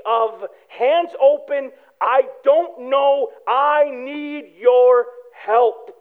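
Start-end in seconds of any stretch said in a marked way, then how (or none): 2.0-5.9 drawn-out, pleading prayer; slow humble plea. Retold or imitated. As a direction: stretch every word, open-handed and humble. Acted prayer, hands open.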